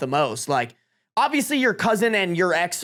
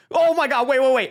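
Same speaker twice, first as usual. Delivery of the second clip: high, excited interruption; excited realisation; 6 semitones higher, 3 dB louder than usual. Real, not acted. Streamer interrupting himself with a new scenario, excited. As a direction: cut in, seized by a new idea.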